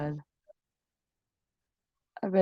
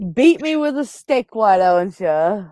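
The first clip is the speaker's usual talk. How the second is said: mock protest; 2 semitones higher, 6 dB louder than usual. Mock protest at being scolded.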